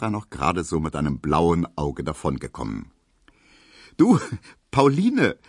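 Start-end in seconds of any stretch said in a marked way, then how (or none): 4.0-5.4 called out, louder and higher, with a laugh in it; calling laughing. A narrator's reading. Emil calls to Pauline entering the door, laughing. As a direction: greet her with a glad laughing call. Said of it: "rief Emil Kubinke lachend".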